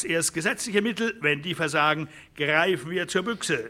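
defiant rancher. Acted. A rancher vows to the others to defend his farm, high and defiant. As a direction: swear to fight to the last breath.

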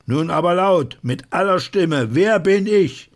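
hoch und laut gerufen; laut anfeuernd. Acted. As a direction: die ganze Menge aufpeitschen. Fordert lautes Rufen. (hoher, lauter Ruf)

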